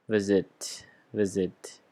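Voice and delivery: "visit" stressed on its first syllable, VIS-it. Shown as a demonstration. Teacher shows students where the stress is, first-syllable stress. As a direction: lean on the start of "visit", letting the end fall. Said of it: "the stress is on the first".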